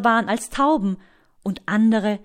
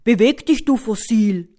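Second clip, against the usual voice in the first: loud, impatient snap at a sleeper; impatient dinosaur losing it; impatient outburst; 7 dB louder than usual. A narrator's reading. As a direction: burst out loudly, out of patience. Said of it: "Struti wird ungeduldig".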